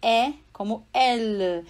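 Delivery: elle with an open E, ɛl. Shown as a demonstration. Teacher to student: open E as in elle. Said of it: "ele ficaria".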